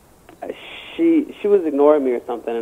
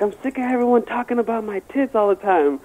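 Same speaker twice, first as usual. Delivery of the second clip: mock fed-up rant in a higher voice; fed-up girl; 7 semitones higher than usual. Imitates fed-up prom date.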